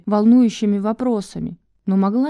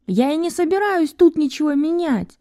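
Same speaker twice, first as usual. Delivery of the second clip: high, raised angry voice; shouting; 8 semitones higher than usual. Acted. Val shouting at Enisa, barely aware of it. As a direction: shout it back at her. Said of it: "Вэл кричала".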